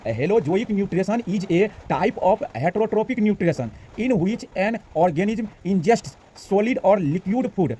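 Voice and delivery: very slow English reading, every word spelled out; pronunciation read-through. Shown as a demonstration. Teacher demonstrating pronunciation of the English definition, very slow. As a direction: model the pronunciation slowly for learners. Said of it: "चलिए पढ़ लेते हैं इसका pronunciation".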